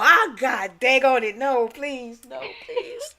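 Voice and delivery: put-on high, whiny begging child; hammed-up begging child; mock pleading kid. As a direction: plead like a kid getting whipped. Kid pleading during whipping.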